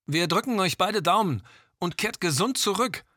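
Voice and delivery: raspy voice crackling over the radio; croaking radio voice. Acted. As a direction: croak it through a walkie talkie. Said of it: "krächzte die Stimme".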